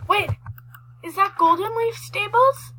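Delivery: rising, surprised question; is that really it?. Real, not acted. Spots a place in game.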